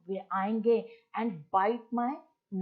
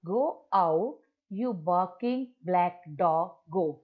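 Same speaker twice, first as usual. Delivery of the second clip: louder, slow commanding recital; shooing the dog; 3 dB louder, much slower than usual. Retold or imitated. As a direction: drive the dog off with the words. Mother chasing the dog away. (कुत्ते को भगाती माँ, ज़ोर से)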